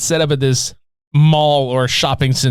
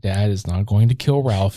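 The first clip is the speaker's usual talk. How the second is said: lower, measured motherly denial; reassuring mom; 4 semitones lower than usual. Retold or imitated. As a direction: lightly imitate a mother calmly settling her child. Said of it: "And she's like".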